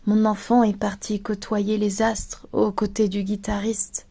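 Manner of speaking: understated sadness in a soft voice; sad. Acted. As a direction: recite it quietly, as a saddened parent. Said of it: "dira tout triste".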